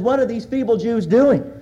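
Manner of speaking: lightly mocking, falling on "doing"; a touch of ridicule in "What are these feeble Jews doing?"; mild sarcasm. Preacher retells Sanballat's mockery to church, mild sarcasm. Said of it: "with a tone of sarcasm and a tone of ridicule".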